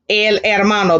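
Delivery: hermano begun on the vowel, no H sound; silent H. Shown as a demonstration. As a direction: say hermano as "ermano". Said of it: "because H is always what? Silent".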